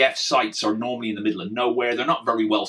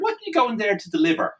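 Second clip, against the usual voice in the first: nervous policeman; 8 semitones higher, faster than usual. Retold or imitated. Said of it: "a little nervous".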